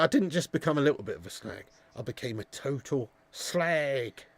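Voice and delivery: quoting Cat Slater. Retold or imitated. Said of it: "get Mister P to do the cat slater".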